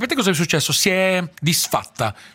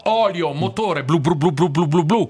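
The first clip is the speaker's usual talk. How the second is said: theatrical swelling poetry reading; slower than usual. Pretend. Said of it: "ce la vuoi recitare una poesia futurista".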